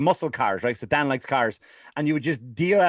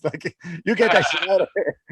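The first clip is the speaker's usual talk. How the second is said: ordinary talk, nothing marked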